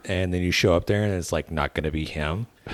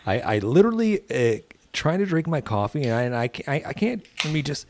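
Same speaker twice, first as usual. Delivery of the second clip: put-on whiny teenager; 7 semitones higher than usual. Mocking kids' driving.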